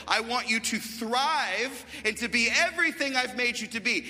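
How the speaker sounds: forceful sermon delivery, leaning on key words; emphatic preaching. Real, not acted. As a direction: declare it from the pulpit with conviction. Preaches at height of message.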